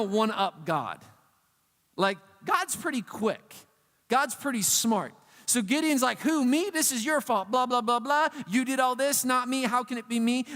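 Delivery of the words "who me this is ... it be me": acted indignant blame, pitched up at the start; mock-indignant excuse-making; defensive protest. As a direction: protest innocence and throw the blame back. Acted Gideon blaming God.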